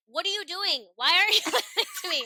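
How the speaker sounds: mock exasperation. Retold exasperated scolding of daughter.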